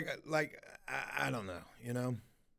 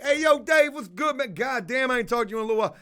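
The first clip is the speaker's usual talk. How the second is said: raised, high-pitched hello to a buddy; hearty greeting; 5 semitones higher than usual. Retold or imitated. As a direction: re-enact hailing an old friend. Greeting Dave on phone in public.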